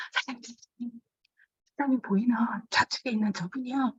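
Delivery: hushed aside into the owner's ear; whispering secretly to the owner about a guest; whispering to boss. Retold or imitated.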